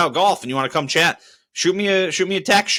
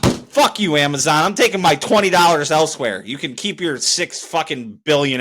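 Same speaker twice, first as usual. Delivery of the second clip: defiant outburst; 2 semitones higher, 3 dB louder than usual. Real, not acted. Defiant sign-off at Amazon.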